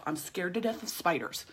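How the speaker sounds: whispered secret confession; whispered fear of spiders. Pretend. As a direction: hush it like admitting something embarrassing.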